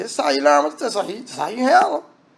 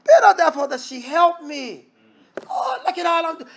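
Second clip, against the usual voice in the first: voicing Martha's complaint; 7 semitones higher than usual. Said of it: "came and said".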